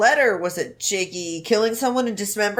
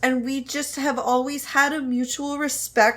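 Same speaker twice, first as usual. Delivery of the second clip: apology video voice. Pretend. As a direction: play the hurt celebrity apologizing. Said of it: "His apology video voice".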